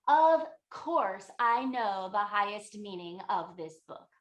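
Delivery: loud, slow, puffed-up proclamation; pompous indignation. Retold or imitated. Abbot of Nalanda insisting he knows the meaning, pompous. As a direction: declare your rank, hammed-up.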